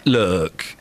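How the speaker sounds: low, drawn-out verdict with pauses; slow right down and pronounce judgement; Simon Cowell. Retold or imitated. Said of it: "I can do Simon Cowell".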